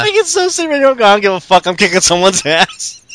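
mock dumb brute. Co-host mocks Randy voice.

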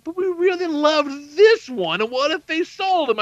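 put-on high, slow, whiny little girl begging; pleading kid voice. Daughter begging dad to keep the bird, whiny high plea.

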